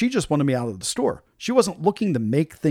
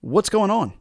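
mock condescending question, pitched up; a hint of talking down to a customer; 5 semitones higher, slower than usual. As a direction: lightly imitate a patronizing manager. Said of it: "she gives me this very condescending tone".

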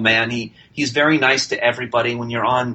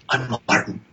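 rough impression of a film actor; understated actor impersonation; Martin Sheen. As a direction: attempt the movie star's voiceover delivery. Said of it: "I can't imitate him well".

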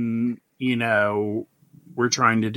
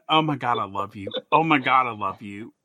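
gushing. Retold or imitated. Host gushing over his favorite TikToker, breathily. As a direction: swoon over him. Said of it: "And I'm going".

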